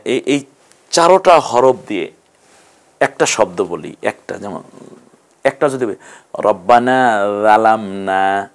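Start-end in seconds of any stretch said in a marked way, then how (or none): 6.4-8.5 "যালামনা" with the tongue tip between the teeth; said with zal. Shown as a demonstration. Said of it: "জাল দিয়ে বলেছি".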